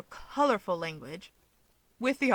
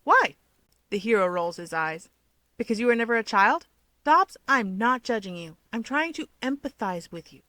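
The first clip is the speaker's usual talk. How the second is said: bursting out; 4 dB louder than usual. Acted. Keigo bursting out at Toya, mock outrage. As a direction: blurt it out mockingly.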